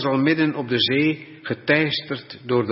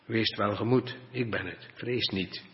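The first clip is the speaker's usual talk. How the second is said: soft and quiet, calming the frightened; gentle reassurance; 6 dB quieter than usual. Acted. Jesus speaks softly to terrified disciples, gently reassuring. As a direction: hush them, tell them not to fear.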